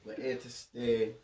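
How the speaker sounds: low echo. Acted. Deep mock echo of intro.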